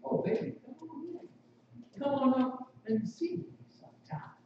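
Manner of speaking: hushed, breathy come-hither, pitched high; sultry vamp. Acted. Temptress invites, quoting Mae West.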